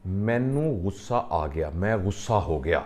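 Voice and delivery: مینوں غصہ آ گیا drawn out very slowly, each word weighed; slow emphasis. Shown as a demonstration. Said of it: "کہنے". (مینوں غصہ آ گیا بہت آہستہ، ہر لفظ پر زور)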